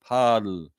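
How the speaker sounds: "Poeltl" alone, with an Austrian o-umlaut; careful Austrian vowel in "Poeltl"; Austrian pronunciation. Shown as a demonstration. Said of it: "that's how you pronounce that in Austrian".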